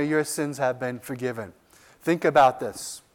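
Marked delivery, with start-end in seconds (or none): 0.0-1.5 reassuring. Acted. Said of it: "he's telling her".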